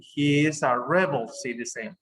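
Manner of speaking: rebel said REB-el within the sentence; stress on first syllable. Shown as a demonstration. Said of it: "it's at the beginning".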